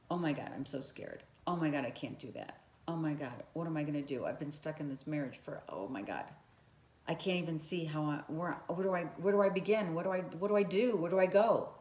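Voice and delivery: spiral into a panic, rushing the words; panicked worry. Pretend. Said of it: "If your heart contracts".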